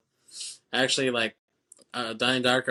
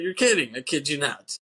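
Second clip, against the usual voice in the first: mocking movie line; 3 semitones higher than usual. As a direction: ham up "You're kidding." to make fun of the line.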